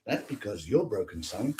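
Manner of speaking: low, soft, flat verdict; quietly crush him as his mother; mother telling her son he is broken; cold mother voice. Pretend. Mother answers son, much quieter.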